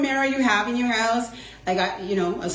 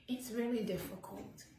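ordinary talk

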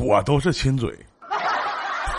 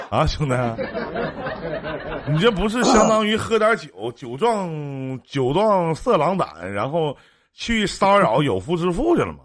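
laughing, teasing; 6 semitones higher than usual. Real, not acted. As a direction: tease him while cracking up. Host mocking caller's story.

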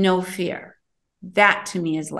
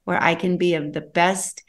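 softly spoken prayer; 2 semitones lower, 4 dB quieter than usual. Acted. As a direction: pray it gently to yourself. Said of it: "I have a prayer that I give".

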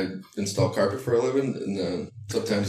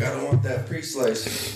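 slow, higher mock of the boy's line; imitating the son; 5 semitones higher, slower than usual. Boy at the deli counter, slow imitated complaint. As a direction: drag the words out like the boy did. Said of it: "was like".

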